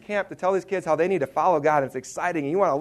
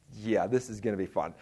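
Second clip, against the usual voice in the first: low, soft, deadpan dread; dry sarcasm; 7 semitones lower, 8 dB quieter than usual. Retold or imitated. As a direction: say it with zero enthusiasm. Dreading the crowded basement.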